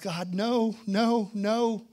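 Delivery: loud, pleading string of refusals; hard praying. Retold or imitated. Passenger praying as big man nears his row, pleading. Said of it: "I'm praying hard".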